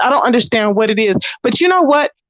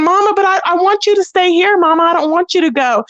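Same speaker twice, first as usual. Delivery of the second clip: imitating pleading child; 6 semitones higher than usual. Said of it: "That poor baby".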